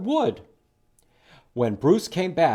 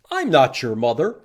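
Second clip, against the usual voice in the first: stern; 6 dB louder than usual. Acted. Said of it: "Bruce was very stern".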